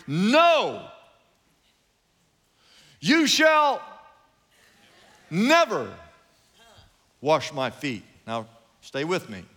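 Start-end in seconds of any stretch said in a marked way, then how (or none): 0.1-8.0 maverick refusal. Retold or imitated. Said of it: "like a maverick".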